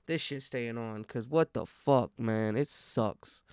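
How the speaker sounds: talking through a face mask; words muffled behind a mask. Real, not acted. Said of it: "I'm a little muffled".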